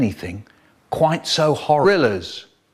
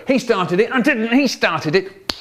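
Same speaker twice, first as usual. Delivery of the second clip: laughing; 7 semitones higher than usual. Retold or imitated. Retelling a backseat squabble.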